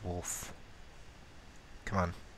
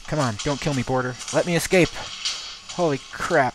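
loud, raised-pitch begging; real panicked plea; 5 semitones higher, 10 dB louder than usual. Real, not acted. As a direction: shout urgently to get away. Fleeing a killer at the border.

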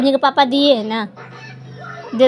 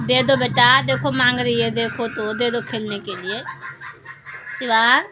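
softer, lower coaxing to her son; gentle coaxing; 3 semitones lower, 6 dB quieter than usual. Real, not acted. Mother softly coaxes her son to share with sister. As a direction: ease him into giving it, softly.

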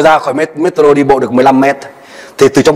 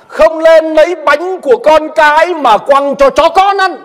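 stern rebuke; 13 semitones higher, slower than usual. Acted. Quoting Jesus's harsh reply.

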